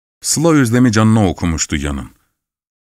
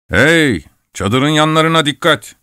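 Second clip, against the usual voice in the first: high-pitched call of warning; urgent-sounding narrated warning; 6 semitones higher than usual. A narrator's reading. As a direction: call out to watch out, pitch raised. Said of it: "bu uyarıyı yaptığı sırada".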